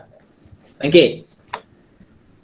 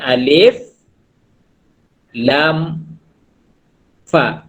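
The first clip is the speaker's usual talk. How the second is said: slow spelling; much slower than usual. Shown as a demonstration. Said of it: "Huruf alif".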